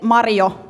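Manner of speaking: "Mario" said the Finnish way with a rolled R; slow, Finnish-style "Mario"; Finnish pronunciation. Shown as a demonstration. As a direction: roll the R in "Mario". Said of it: "That's how we say the name".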